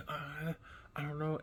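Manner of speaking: lightly voiced sweet boy, unsure; shy kid answering the bully, soft and sweet; sweet kind kid. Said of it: "he sounded so loving and sweet".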